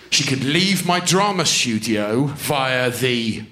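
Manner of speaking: drawn-out words with long pauses; suspenseful slow build. Real, not acted. Comedian setting up the cupboard punchline, slow suspense.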